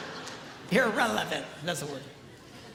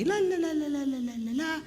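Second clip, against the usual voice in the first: wife's chatter; 3 semitones higher, faster than usual. Retold or imitated. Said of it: "she's talking to me".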